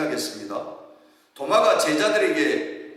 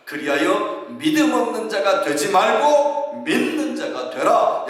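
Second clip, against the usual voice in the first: slow scripture reading; 6 semitones higher, 3 dB louder, slower than usual. Shown as a demonstration. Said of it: "주님 말씀하십니다".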